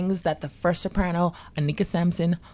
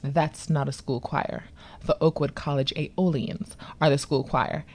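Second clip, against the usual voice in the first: low, soft, measured smugness; smirking correction; 4 semitones lower, 5 dB quieter than usual. Retold or imitated. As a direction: correct them quietly with a slight smirk. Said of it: "he smirks and he goes".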